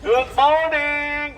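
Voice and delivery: long, drawn-out wake-up call. Real, not acted. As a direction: stretch it out to rouse a group. Guide wakes up sleepy tourists.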